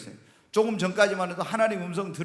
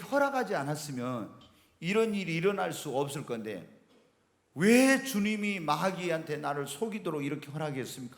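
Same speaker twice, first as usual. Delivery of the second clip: tearful prayer; 3 semitones lower, 4 dB quieter than usual. Retold or imitated. Pastor retelling his tearful prayer, softly. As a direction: plead quietly through tears. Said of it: "울면서 내려오는 거야".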